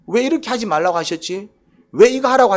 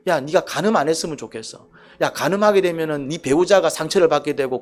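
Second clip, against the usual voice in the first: gentle pleading; 3 semitones lower than usual. Shown as a demonstration. God warning against adultery, gently caring. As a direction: reason with them kindly. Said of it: "이런 말투라니까".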